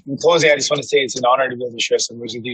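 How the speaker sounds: talking while the bus bounces; on a bumpy road. Real, not acted. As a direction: voice jolted by a bumpy bus ride. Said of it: "Sorry for the bumpy ride".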